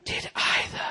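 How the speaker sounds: very low, slow, quiet gravel threat; dad threatening the kids in the back of the car; Lee Van Cleef menace. Retold or imitated. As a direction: growl it like a spaghetti western villain. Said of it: "Lee Van Cleef".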